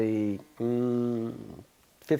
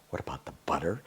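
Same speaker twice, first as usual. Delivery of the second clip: softer, lower repeat of "What about the butter?" muttered to himself; puzzled muttering; 7 semitones lower, 12 dB quieter, much faster than usual. Retold or imitated. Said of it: "I was kinda going".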